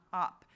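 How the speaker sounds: Op said alone, loud, as the rest of the word; rime segment. Shown as a demonstration. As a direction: give Op as the word's ending chunk. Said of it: "what's the rest of the word?".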